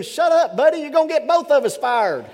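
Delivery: loud, high urgent hushed punchline with a laugh; lion hushing him. Retold or imitated. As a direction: snap at him to shut up, laughing. Lion hisses back punchline.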